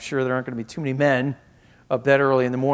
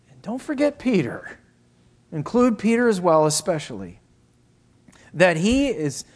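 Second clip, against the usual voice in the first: fervent preaching; 5 semitones higher, 4 dB louder than usual. Real, not acted. Preaches with raised voice.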